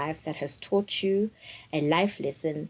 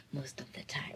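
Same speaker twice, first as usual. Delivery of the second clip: laughing aside; 4 semitones lower, 16 dB quieter than usual. Real, not acted. Joking aside while laughing.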